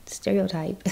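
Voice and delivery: a breathy whispered one-word aside. Real, not acted. Aside to the listener, whispered before laughing. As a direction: drop to a whisper for the punchline. Wry aside after her own story.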